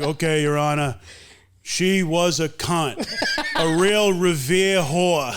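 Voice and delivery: mock-formal witness, slow verbatim reading; reading out in court. Friend imitating officer reading texts to judge, slow deadpan. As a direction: spell out each word deliberately for the judge. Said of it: "You have to say it as it's written".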